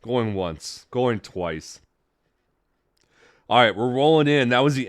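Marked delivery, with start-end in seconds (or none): 0.0-1.8 auctioneer. Pretend. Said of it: "I feel like an auctioneer here".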